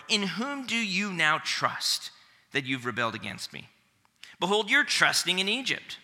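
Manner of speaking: reads the Assyrian envoy's taunt aloud with weight; dramatic Bible reading; scripture reading. Acted. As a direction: proclaim it like a boastful herald.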